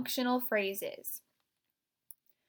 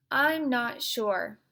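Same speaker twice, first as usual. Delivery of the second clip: slow, intense delivery; 2 semitones higher, 4 dB louder, slower than usual. Shown as a demonstration. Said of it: "using that vocal intensity".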